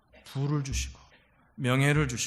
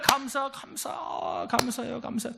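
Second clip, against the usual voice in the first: slow, higher, drawn-out chant of thanks; imitating a thankful friend; 3 semitones higher, 4 dB quieter, much slower than usual. Preacher mimics a churchgoer who always says thanks, drawn-out and higher. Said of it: "어떤 분은요, 만나면 맨날".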